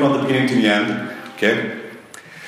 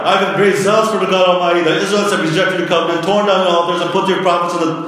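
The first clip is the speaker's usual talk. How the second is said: higher, fast, fed-up complaining; exasperated Elijah; 3 semitones higher than usual. Retold or imitated. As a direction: rattle it off like an irritated prophet. Preacher's exasperated Elijah paraphrase.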